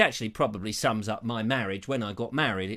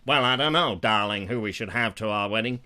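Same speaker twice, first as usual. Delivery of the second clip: deep-voiced Meghan Markle; 4 semitones lower, 3 dB louder than usual. Meghan answering the prince in a deep mock voice. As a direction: lower it into a husky American lady. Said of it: "very deep-voiced".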